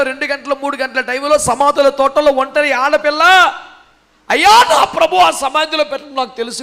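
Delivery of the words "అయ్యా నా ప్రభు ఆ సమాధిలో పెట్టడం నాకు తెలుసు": high opening wail of appeal; acted anguished appeal; pleading cry. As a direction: cry out to him, then plead. Acting the woman pleading with gardener.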